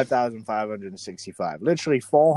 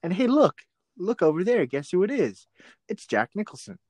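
a hint of a pushy eighties video host, higher; hammed-up instructional tape presenter; cheesy infomercial host; 6 semitones higher than usual. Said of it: "Like a videotape".

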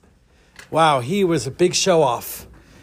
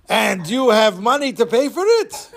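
high put-on old man voice; disguised fishmonger voice; 6 semitones higher than usual. Disguised Don asks the girl for money, changed voice. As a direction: play an old fish seller, pitched up. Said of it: "changes his voice".

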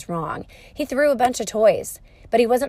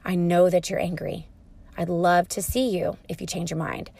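calm, understanding. Retold or imitated. Mother answering her angry son, calm and understanding. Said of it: "I was very calm".

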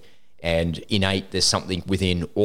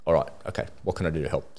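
retold giving in; 3 semitones lower, 6 dB quieter, faster than usual. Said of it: "And she's like".

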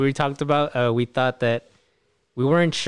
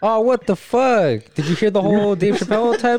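surprised; 8 semitones higher, 5 dB louder than usual. Real, not acted. Friend's call dropped mid-talk.

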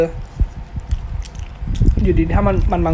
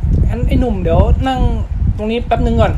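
screening staff; 5 semitones higher than usual. Retold or imitated. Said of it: "แทนที่เขาจะแบบ".

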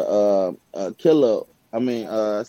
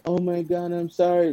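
lightly mocking, higher apologetic whine; apologetic white person; 5 semitones higher than usual. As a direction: play it as a hammed-up fake apology. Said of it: "But now everybody".

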